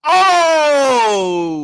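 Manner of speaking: long, high, loud "oh" sliding down; loud excited cry. Real, not acted. Streamer bowled over by the picture, loud drawn-out cry. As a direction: holler it out and let it fall.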